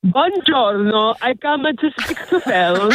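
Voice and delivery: slow, hammed-up Italian accent; a caller doing a playful Italian accent. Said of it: "bringing me some Italiano".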